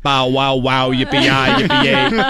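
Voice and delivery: giddy stoned dog barking yippee; happy dog voice. Retold or imitated. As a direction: play the dog, blissed out.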